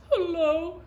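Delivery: high, loud drawn-out hello; calling out. Acted. Little Beaver to the unseen voice, calling out loud and high. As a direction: call across the water. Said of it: "he called".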